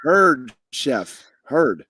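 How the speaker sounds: loud line-cook callouts; kitchen order callouts. Pretend. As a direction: answer the chef like a busy line cook. The Bear kitchen banter.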